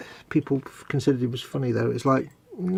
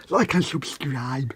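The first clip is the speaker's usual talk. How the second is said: slow, softer slushy lisp; lateral lisp; 7 dB quieter, much slower than usual. Shown as a demonstration. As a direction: push the s out sideways. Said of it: "Gotta have that lateral lisp".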